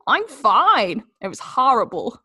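whispered, shaken first words then plain; breathless and shaken, as Al; Al from The Mole. Acted. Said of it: "That's Al from The Mole".

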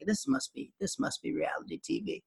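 high then whispered aside; hushed disbelief. Retold or imitated. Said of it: "I was like".

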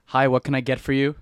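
bright, loud drive-through greeting; cheerful cashier. Shown as a demonstration. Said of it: "I'll be like".

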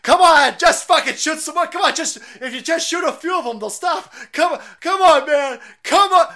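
high, loud, hammed-up begging; exaggerated, insistent high-pitched begging; mock pleading. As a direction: plead shrilly as a mocking impersonation. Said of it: "She's pleading with them".

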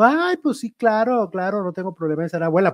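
lightly imitated star's reply, pitched high then settling; la Queen. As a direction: open on a high "ay", then rattle it off. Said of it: "Y ella dijo". (imitando levemente a una famosa, agudo al inicio)

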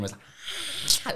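breathy, soundless high squeal; quiet high scream demo. Shown as a demonstration. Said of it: "there was no volume in that scream".

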